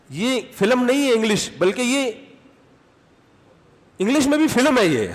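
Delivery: amused mock exclaim. Mock English people's verdict.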